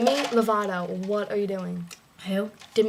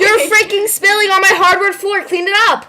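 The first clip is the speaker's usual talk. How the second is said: annoyed scolding; 6 semitones higher, 4 dB louder than usual. Real, not acted. Scolding spill on floor.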